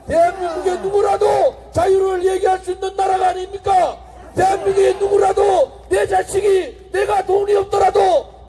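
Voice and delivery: shouted, rising political oratory; roaring rally speech. Acted. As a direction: rouse the crowd at full voice. Rally speech at full force.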